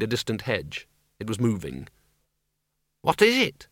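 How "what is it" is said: put-on high, startled old woman voice; high anxious old woman. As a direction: ask high and worried. Miss Flitworth, frightened.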